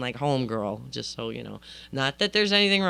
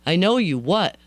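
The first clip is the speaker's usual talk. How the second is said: louder, insistent mock yell; retold yelling; 6 dB louder than usual. Friend who knows her too well, mock yelling. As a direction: act out a friend demanding to know. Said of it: "she starts yelling".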